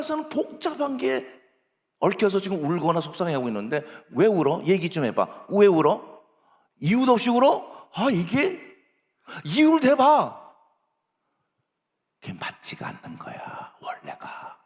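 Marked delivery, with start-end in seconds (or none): 4.1-10.5 exasperated demand. Acted. Adult demanding a crying child explain, exasperated and rising. 12.2-14.6 hushed, confiding disapproval; whispered aside. Real, not acted. Lecturer confiding that this approach is wrong, whispered.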